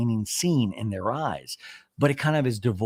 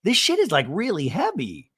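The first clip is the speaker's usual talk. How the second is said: dramatic alarm; 5 semitones higher, 4 dB louder than usual. Retold or imitated. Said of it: "Gina pipes in and goes".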